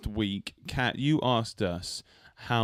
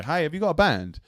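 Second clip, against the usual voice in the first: higher-pitched, mock-eager pitch; eager approach; 4 semitones higher than usual. Boldly approaching a stranger with a guitar, eager. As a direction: pipe up as if approaching someone new. Imagined approach to a street musician.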